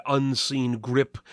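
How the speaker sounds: plain reading voice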